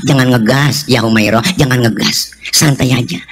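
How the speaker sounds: low-pitched calming of a wife; gentle low reassurance; calm soothing. Acted. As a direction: ease her down without any heat. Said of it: "Jadi Nabi nggak marahan".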